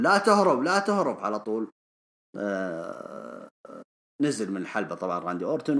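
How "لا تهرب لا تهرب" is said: high, raised call after someone leaving; imitated shout. Big Show calling after the departing Randy Orton, imitated shout. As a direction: shout it as if calling back a runaway. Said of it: "وجالس يصرخ عليه بيج شو يقول".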